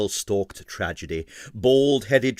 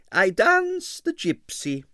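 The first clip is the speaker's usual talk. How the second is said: imperious ballerina; 12 semitones higher, slower than usual. A narrator's reading. Arienskaya decides.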